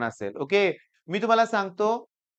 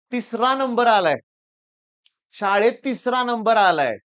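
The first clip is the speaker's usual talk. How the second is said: mock-indignant parent complaint, pitched up; raised-pitch retold grievance; angry parent; 2 semitones higher, 4 dB louder than usual. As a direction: imitate a parent protesting a result. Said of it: "एवढे चिडले होते".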